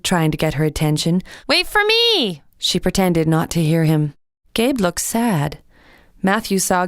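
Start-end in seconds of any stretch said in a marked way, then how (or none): 1.4-2.4 mild call. A narrator's reading. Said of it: "he shouted".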